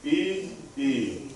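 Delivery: E said twice as separate ee sounds; E, a pause, E; long E sound. Shown as a demonstration. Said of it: "we'll say it twice".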